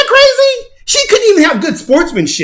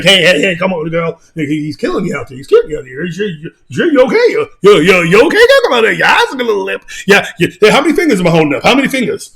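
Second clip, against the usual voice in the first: low, quick mock referee checking on her; imitating the ref; 5 semitones lower than usual. Ref checking on the dazed woman, lightly voiced. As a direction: play the ref fussing over a hurt fighter. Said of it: "the ref's like".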